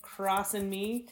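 slow, sugary but cutting; slow, sugar-coated Southern snub between women; passive-aggressive snub. Retold or imitated. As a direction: smile sweetly while putting her in her place. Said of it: "grown women snubbing each other".

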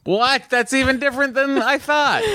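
high, astonished What; surprised. Real, not acted. Co-host hears the genetic test was never run, genuinely stunned. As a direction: caught off guard by the news, voice jumping up. Surprised reaction to email news.

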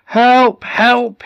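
high, full-voiced shouts; shouting for help. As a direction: shout for help as the sea rises. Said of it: "he shouted".

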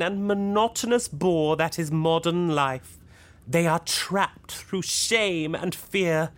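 measured, declamatory sermon; grand preaching. Acted. Leader announcing a new church to housemates, grandly preaching. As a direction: proclaim it like a self-styled prophet.

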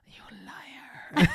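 whispered mock accusation; frustrated whisper. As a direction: act out a wronged child, whispering. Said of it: "I get so frustrated".

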